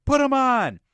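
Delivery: very high, loud hammed-up demand; explosive acted insistence; frantic mock shout. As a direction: yell it like a crazed movie hero. Acting out the film's argument.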